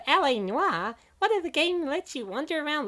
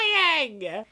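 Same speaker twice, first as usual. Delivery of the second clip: accusing; 3 semitones lower, 4 dB louder than usual. Acted. Accuses of eating cake.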